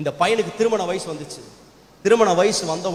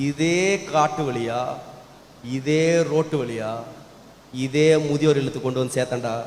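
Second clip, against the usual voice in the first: acted father's measured admission; grave confession; 3 semitones lower than usual. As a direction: confess it heavily, pausing between phrases. Father confesses his own past deed.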